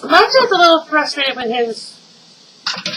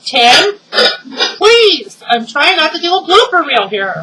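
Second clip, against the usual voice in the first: exasperated plea; 4 semitones higher than usual. Real, not acted. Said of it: "pleading with husband".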